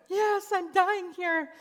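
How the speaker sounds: high, slow, hammed-up plea of suffering; mock dying. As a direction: play it up as if in agony. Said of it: "I'm like".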